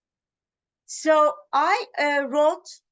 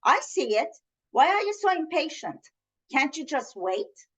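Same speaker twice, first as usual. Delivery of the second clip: upset; 3 semitones higher than usual. Retold or imitated. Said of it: "the person gets upset and says".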